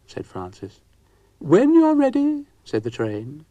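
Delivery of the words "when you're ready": giggling. Acted.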